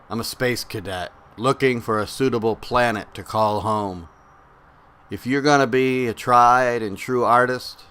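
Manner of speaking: measured spoken-word delivery, pause after each phrase; poetry reading. Acted. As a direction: recite it line by line, deliberately. We're gonna read some older and some newer poetry.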